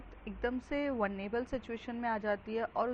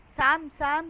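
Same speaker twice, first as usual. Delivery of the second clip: calling out; 5 semitones higher, 10 dB louder, slower than usual. Retold or imitated. Calling Sam for help.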